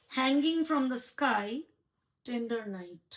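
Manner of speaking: slow, measured haiku reading; slow haiku recital to the poet; poem reading. Shown as a demonstration. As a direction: read each phrase slowly with pauses. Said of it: "আরেকটা পড়ছি আমি".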